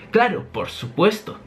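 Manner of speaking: a lightly voiced inventor agreeing; light Vegapunk voice. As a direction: answer brightly, sure of yourself. Vegapunk answers Chopper.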